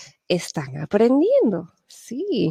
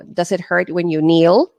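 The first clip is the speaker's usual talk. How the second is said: quoting an interpreter's question. Shown as a demonstration. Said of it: "No digo".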